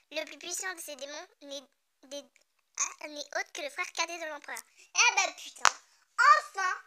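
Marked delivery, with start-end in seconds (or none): 4.9-6.7 exasperated outburst. Real, not acted. Finally decoding the hard name.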